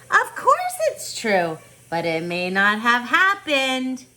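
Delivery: grandmother voice. Acted. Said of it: "She'd answer".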